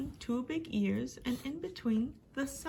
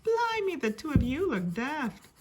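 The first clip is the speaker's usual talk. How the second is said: higher, lightly voiced little girl teasing; a hint of a cheeky little sister; amused Mai; 5 semitones higher, 4 dB louder than usual. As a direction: tease them with a laugh in the voice. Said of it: "Mai laughed".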